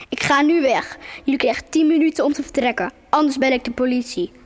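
put-on man at the window threatening the children; called out. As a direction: warn them off sternly. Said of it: "riep hij".

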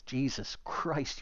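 slow drawn-out sigh of disbelief; exasperated. Acted. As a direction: stretch it out in disbelief. Oliver exasperated.

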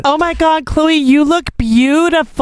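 mock gushing. Fawning over Khloé's new look, mock gushing. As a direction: gush in a put-on high voice, stretching it out.

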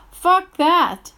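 sharp angry dismissal; angry outburst. Real, not acted. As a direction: spit it out in real anger. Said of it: "I'm just really angry".

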